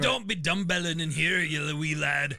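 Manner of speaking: lightly hammed-up Irish coach; Irish accent. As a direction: scold in a put-on Irish brogue. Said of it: "What weird kind of Irish".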